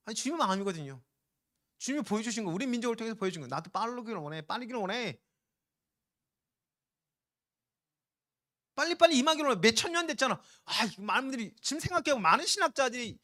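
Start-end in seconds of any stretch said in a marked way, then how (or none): 3.5-9.6 Lord's eager voice. Acted. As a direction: voice the Lord longing for it to come soon. 주님의 마음을 음성으로 연기함. (속히 임하길 원하시는 주님처럼 점점 높아지며 외치듯)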